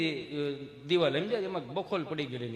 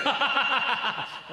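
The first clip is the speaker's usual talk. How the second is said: hearty laugh; 6 semitones higher than usual. Real, not acted. Teller laughs at own story.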